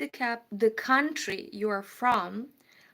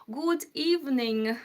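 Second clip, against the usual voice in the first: put-on British accent, pitched up; 4 semitones higher than usual. Shown as a demonstration. Streamer greeting a viewer from England, playful British accent. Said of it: "let me do a British accent".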